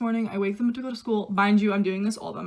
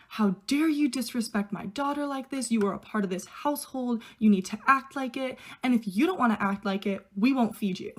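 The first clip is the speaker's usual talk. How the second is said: mock scolding at ordinary volume, pitch a touch raised; retold angry yelling; 3 semitones higher than usual. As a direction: imitate an outraged dad's telling-off without shouting. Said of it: "He starts yelling at me".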